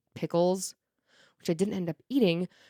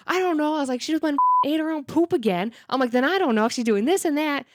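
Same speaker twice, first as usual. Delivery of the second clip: loud, raised pitch, not noticing the volume; loud oblivious talking; 7 semitones higher, 3 dB louder, faster than usual. Retold or imitated. Owner to coworker at a meeting, loudly and unaware. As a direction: talk way too loud without realizing. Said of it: "realized I was talking really loud".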